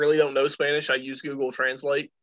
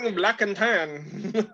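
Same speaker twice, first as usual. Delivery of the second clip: numb mouth; 4 semitones higher, slower than usual. Real, not acted. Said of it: "I cannot feel my tongue".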